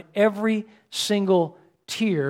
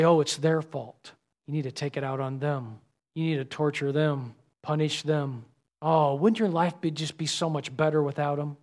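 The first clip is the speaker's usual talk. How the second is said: sly tempting voice; 4 semitones lower, 7 dB quieter than usual. Retold or imitated. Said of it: "and say".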